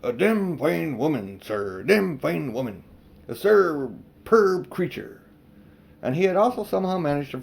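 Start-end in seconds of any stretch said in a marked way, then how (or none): 0.0-5.2 slow, savouring mutter to himself; lightly voiced, dreamy old uncle; admiring old man. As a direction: relish each word like a vain old fool. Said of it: "He kept on saying to himself".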